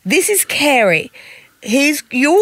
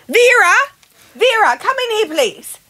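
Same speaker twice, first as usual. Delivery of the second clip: calling out; 5 semitones higher than usual. Acted. Calling maid from another room.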